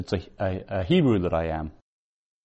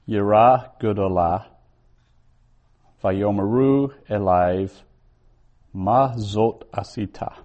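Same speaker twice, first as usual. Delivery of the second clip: Hebrew verse reading. Shown as a demonstration. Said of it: "Okay, verse ten".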